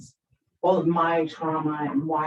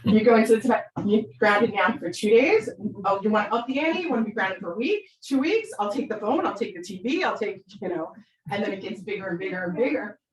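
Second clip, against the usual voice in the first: hammed-up parent raising the stakes; mock scolding parent; 3 semitones higher than usual. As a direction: escalate the threats like an exasperated parent. Parent scolding an escalating grounding.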